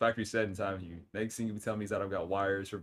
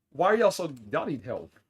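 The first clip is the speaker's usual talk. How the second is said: exasperated; 6 semitones higher, 8 dB louder than usual. Real, not acted. Mock exasperation at chat.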